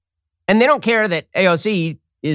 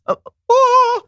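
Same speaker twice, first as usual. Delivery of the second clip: much higher diva-style sung oh; angelic high oh; 4 dB louder than usual. Retold or imitated. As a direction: belt a heavenly high note. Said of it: "Ariana Grande's voice came down from the heavens".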